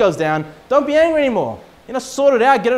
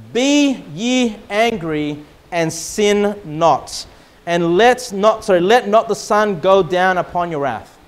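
scripture reading; slower than usual. Acted. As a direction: read it like Scripture from the pulpit. Reads scripture aloud.

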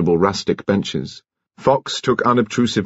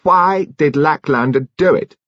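sudden demand; 7 semitones higher, slower than usual. A narrator's reading. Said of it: "Mister Finn said suddenly".

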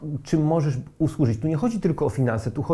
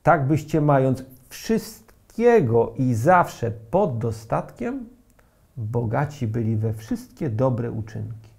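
czytanie Pisma; slower than usual. Acted.

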